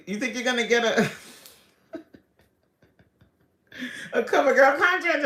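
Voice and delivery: a hint of a scornful TV judge; mock Tyra. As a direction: throw the judge's challenge in a mock diva voice. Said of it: "Tyra talking about".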